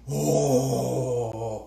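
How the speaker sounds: drawn-out, impressed oh; admiring oh. Shown as a demonstration. Spinning teacher shows how to admire a finished yarn, impressed oh. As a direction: marvel at the yarn with one word. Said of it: "il faut toujours dire".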